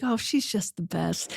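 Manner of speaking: soft, imitated adoring husband; beaming fondness. Friend voicing a husband watching his wife, beaming fondness. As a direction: say it softly, smitten.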